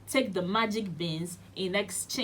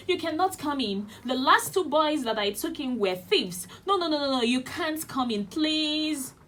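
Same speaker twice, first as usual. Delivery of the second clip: pleading giant's wife; 6 semitones higher than usual. Acted. Giant's wife refuses Jack.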